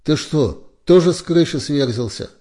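high, loud disbelieving questions; can't believe what he hears; incredulous. A narrator's reading. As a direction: scoff in shock. Кац incredulous at calling police.

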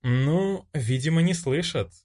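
a hint of a pensive girl, musing; young woman wondering aloud, lightly voiced; thoughtful girl. A narrator's reading. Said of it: "задумчиво произнесла она".

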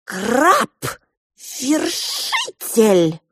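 drawn-out, high announcing voice; very slow, high, loud heralding; grand proclamation. Acted. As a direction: proclaim the title slowly like a herald.

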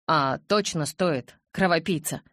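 pleading. Acted. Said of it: "жалобно, почти умоляюще".

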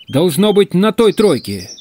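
high, slow, carrying guess; calling out. Acted. Hunter answering the missing-man question, calling out. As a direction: stretch the words as if calling across carriages.

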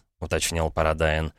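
ordinary delivery

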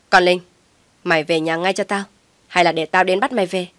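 mother barks an order down the phone; angry summons, loud on the name; sharp yell. Acted. Mother orders Linh home, shouting angrily. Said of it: "tiếng quát giật giọng".

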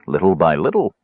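self-important, rising little by little; a touch of pompous dignity; lofty. Acted. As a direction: pronounce it grandly, as a fine excuse. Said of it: "Caramon said loftily".

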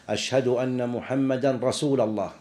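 "رسول" with an -a ending, "rasūla llāh"; grammatical slip. Shown as a demonstration. Teacher quoting some muezzins, "رسول" wrongly ended in -a. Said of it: "هذا لحن خطأ".

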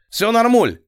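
high, gurgling reassurance. A narrator's reading. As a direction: gurgle it out cheerfully. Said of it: "пробулькал сосед справа". (пробулькал)

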